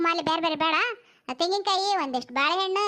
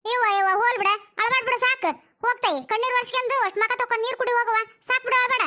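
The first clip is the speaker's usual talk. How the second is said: brisk consoling; 4 semitones higher than usual. Acted. Hushing a wailing mourner.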